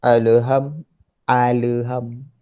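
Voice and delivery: "alham" with an extra vowel, alaham; wrong pronunciation. Shown as a demonstration. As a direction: say "Alham" as a-la-ham. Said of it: "Ada juga lagi yang sebut". (sebutan salah alaham)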